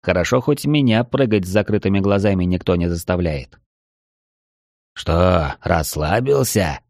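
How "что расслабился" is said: insinuating whisper. Acted. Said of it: "Вкрадчивый шёпот лица".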